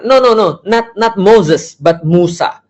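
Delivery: high, pushy no no no, correcting someone; insistent correction. Pretend. Speaker mocking someone who corrects Moses to Musa, insistent and high. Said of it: "Gimana kalau kita kata".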